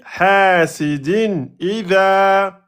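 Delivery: slow measured chant of "hasidin idha"; rhythm. Shown as a demonstration. Teacher showing the rhythm, "hasidin idha" chanted slowly. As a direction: hold the long vowels of "hasidin" and "idha" evenly. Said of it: "regardez là un peu le, le rythme".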